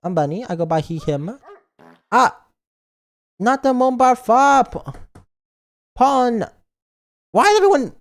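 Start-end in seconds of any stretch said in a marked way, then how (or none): 2.1-7.9 higher, louder mock outrage; high squealing mock protest. Mock upset at chat.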